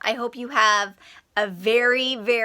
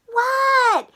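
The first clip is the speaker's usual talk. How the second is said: rude What; 12 semitones higher, 3 dB louder than usual. Shown as a demonstration. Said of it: "should not have said".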